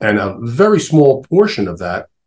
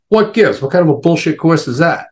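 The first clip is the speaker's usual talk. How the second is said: indignant nun; 7 semitones higher than usual. Retold or imitated. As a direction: blurt it out like a stunned, annoyed nun. Nun scolds his college choice.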